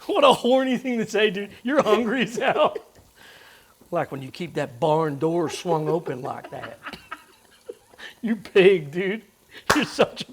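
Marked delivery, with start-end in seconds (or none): 3.9-6.8 slow, playful Southern drawl; southern accent. Retold or imitated. Cook mockingly repeats friend's innuendo, Southern accent. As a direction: tease in a light Southern accent. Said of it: "a southern accent".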